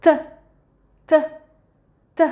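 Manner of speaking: "T" said as a short Russian Т sound, repeated; sound demo. Shown as a demonstration. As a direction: tap out "T" as a bare Russian sound. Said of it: "I'm going to point to the sound".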